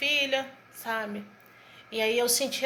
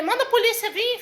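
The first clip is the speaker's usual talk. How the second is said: high-pitched retold challenge; re-enacted defiant outburst; defiant retort; 9 semitones higher than usual. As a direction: throw it back as a dare, pitched way up. Acted defiant retort to the doctor.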